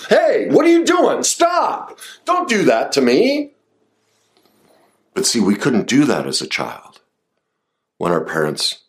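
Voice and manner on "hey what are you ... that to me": fierce boundary shout. Shown as a demonstration. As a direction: push the attacker back hard. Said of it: "Think of it".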